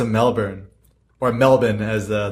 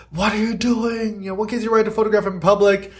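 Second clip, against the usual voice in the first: imitating the angry lady; 8 semitones higher than usual. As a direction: play the upset woman lightly, pitched up. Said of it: "She's like".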